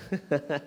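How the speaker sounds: short real chuckle. Real, not acted. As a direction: chuckle at your own anecdote. Amused by his anecdote.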